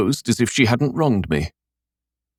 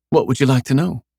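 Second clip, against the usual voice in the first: sullen; 6 semitones higher than usual. Acted. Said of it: "she asked sullenly".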